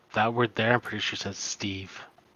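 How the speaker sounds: low, soft, hushed voice. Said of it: "Dare just kinda leans over and goes".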